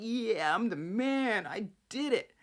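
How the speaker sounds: mock smug, self-satisfied, slow, cocky tone. Retelling a character celebrating a success: imitating a cocky boast. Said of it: "Kyle's feeling himself".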